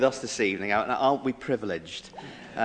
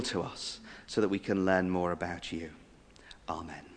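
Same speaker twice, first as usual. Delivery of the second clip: measured, devout prayer voice; closing prayer; 3 semitones lower, slower than usual. Acted. Host leading the audience in prayer, devoutly. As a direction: lead the group gently in prayer.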